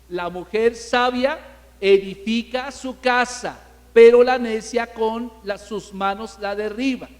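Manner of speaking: slow, weighty recitation of a verse; solemn scripture reading. Shown as a demonstration. Preacher reading the verse to the congregation, slow and solemn. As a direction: lay each phrase of Proverbs down slowly. Preacher quotes Proverbs fourteen one.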